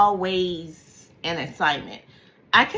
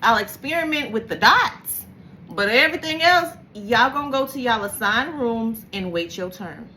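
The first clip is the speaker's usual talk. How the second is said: bossy self-talk; 3 semitones higher than usual. Retold or imitated. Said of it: "And I'm like".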